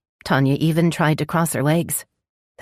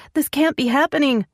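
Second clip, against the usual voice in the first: despairing; 11 semitones higher than usual. Acted. Woman in labour despairs.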